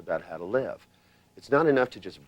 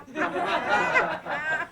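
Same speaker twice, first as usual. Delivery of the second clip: high giggle; 3 dB quieter than usual. Real, not acted. Laughing about trance.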